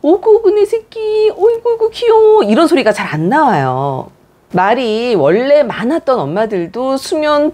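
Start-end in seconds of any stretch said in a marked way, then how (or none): 0.0-2.4 put-on high, doting coo to a baby; grandparent baby talk. Shown as a demonstration. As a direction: gush over the baby like a grandmother, pitched high. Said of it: "할머니, 할아버지들처럼". (할머니처럼 높은 톤으로 아기 어르기)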